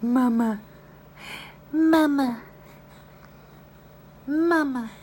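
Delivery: loud, high sing-song Mama. Real, not acted. Coaxing baby to say mama.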